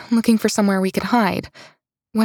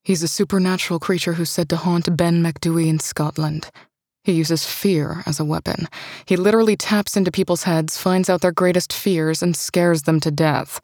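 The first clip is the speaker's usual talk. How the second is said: lower, steady male voice; calm male partner; 3 semitones lower than usual. Acted. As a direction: explain it evenly, deeper. Partner's voice explains lore.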